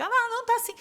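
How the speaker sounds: high, loud mocking "Ah, não, não tá assim"; squeaky fob-off voice aping staff; imitating an employee brushing off a client; mock salesman. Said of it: "Eu falei assim".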